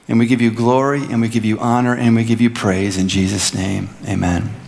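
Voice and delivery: measured, earnest prayer with pauses between phrases. Real, not acted. Pastor leading the congregation in thankful prayer, earnest and measured.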